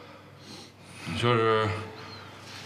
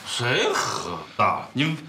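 slurred speech. Acted. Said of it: "舌头都大了".

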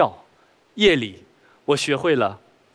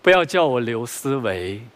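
cheesy romantic poet; slower than usual. Acted. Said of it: "你受什么刺激了".

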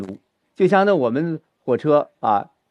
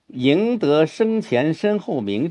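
赢得生前身后名 read slowly, emotion shifting; slow, starting the turn to disappointment; turning point; 3 semitones higher, much slower than usual. Shown as a demonstration. Teacher showing where the mood turns, slow. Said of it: "就略微有点转了".

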